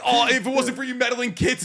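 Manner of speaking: sung villain line. Acted. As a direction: sing the classic villain line. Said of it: "they're just like".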